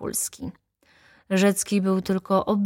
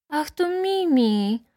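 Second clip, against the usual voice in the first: high, slow, drawn-out exclamation; delighted child's cry; 10 semitones higher, slower than usual. A narrator's reading. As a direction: cry out like a little girl recognising a doll. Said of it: "zawołała Helunia". (radosny okrzyk dziewczynki)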